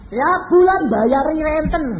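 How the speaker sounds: high, loud and slow, hammering it home; emphatic preaching. Acted. Preacher stresses the monthly interest payments to the congregation, slow loud emphasis. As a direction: stretch each word to make them feel the burden.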